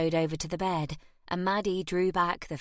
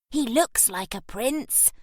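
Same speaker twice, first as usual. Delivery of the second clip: put-on awed child; 6 semitones higher, slower than usual. A narrator's reading. Child marvelling at the stranger.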